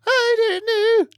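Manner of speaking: put-on high, slow Scottish accent slipping into Irish; drawn-out fake Scottish mom accent; bad Scottish accent. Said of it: "That's Irish".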